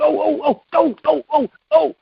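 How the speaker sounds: put-on very high, eager "oh, oh" of a kid begging to be called on; mocking his own eager hand-waving at a meeting; eager hand-raiser. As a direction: squeak it like a schoolkid desperate for a turn. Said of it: "like, I'm just like that".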